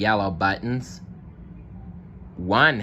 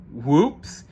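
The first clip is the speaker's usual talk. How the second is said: giggling; 6 semitones higher, 3 dB louder than usual. Acted. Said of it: "giggled Moose".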